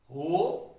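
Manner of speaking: drawn-out 'हो', then stop; syllable split. Shown as a demonstration. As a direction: hold 'हो' and halt after it. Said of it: "रुक गया हूं मैं". ('हो' खींचकर रुक जाएं)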